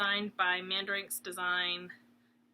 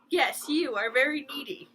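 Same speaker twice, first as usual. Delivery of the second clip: whispered teasing; 5 semitones higher, 6 dB louder than usual. Real, not acted. Whispering to her needy dog, teasing. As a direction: whisper it to him, fond and teasing.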